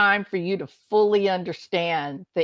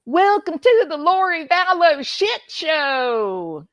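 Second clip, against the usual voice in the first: drawn-out mock announcer yell; imagined courtroom yell; 5 semitones higher, slower than usual. Lori walking into the courtroom, mock yelling out. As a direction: holler it out slowly, hammed-up. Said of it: "and just yell out".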